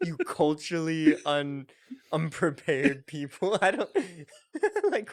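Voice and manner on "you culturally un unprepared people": put-on Australian accent. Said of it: "What a great insult".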